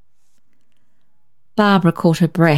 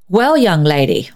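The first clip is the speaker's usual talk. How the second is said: put-on severe old lady. A narrator's reading. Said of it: "began Miss Deering severely".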